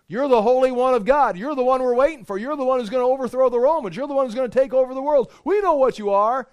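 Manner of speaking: high, loud, fast taunting demon voice; demon blowing the cover. Acted. Demon shouting at Jesus, high and loud taunt. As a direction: crow it out like a demon exposing him. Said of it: "this demon wants to blow the cover".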